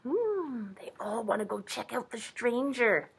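soft whisper of suspense; whispered aside. Real, not acted. Reader tells children about curious animals, whispering. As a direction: confide it in a whisper.

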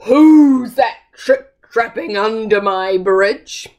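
loud growling troll voice. Acted. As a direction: growl at the goat on your bridge.

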